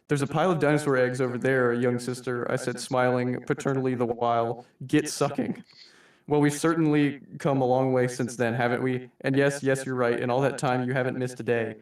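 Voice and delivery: lightly voiced V, a suave mock-polite boss; a hint of theatrical villain addressing his employee; understated V as a genteel manager; reading V's monologue. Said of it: "like V says in the comic".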